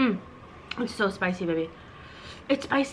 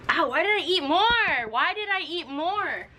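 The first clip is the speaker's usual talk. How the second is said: pained whine; 4 semitones higher, slower than usual. Real, not acted. Burning mouth from spicy noodles.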